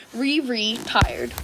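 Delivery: slow, stuttered word; halting stammer. Acted. Midoriya retiring again, slow stammer. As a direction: drag it out as he despairs.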